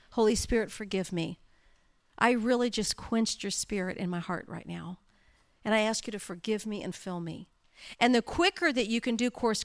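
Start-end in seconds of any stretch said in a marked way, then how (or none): 0.1-7.5 quiet prayer. Retold or imitated. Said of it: "Those were my exact words".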